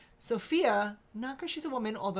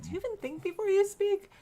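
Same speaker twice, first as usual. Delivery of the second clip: retold scolding; 12 semitones higher than usual. Mother quotes herself to son.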